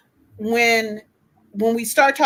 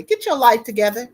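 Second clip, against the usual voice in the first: Miss D's way; faster than usual. Retold or imitated. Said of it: "I'ma say it Miss D's way".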